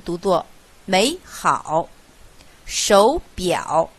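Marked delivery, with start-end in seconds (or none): 0.8-1.9 美 rising like a second tone, 好 dipping; 美好 said as méi hǎo; third-tone sandhi. Shown as a demonstration. Teacher demonstrates two third tones, 美 rising as second tone. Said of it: "变为二声".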